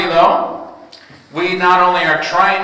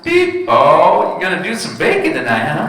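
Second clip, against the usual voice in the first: chirpy cashier. Retold or imitated. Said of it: "they go".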